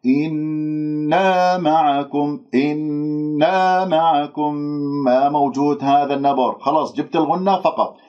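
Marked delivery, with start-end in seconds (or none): 0.1-4.5 إنا معكم slowly with a long even "nn"; unstressed ghunnah. Shown as a demonstration. Teacher shows nasality without stress: even held ن in إنا معكم. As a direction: hum through إنا without punching the nun. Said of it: "لا تنبروها".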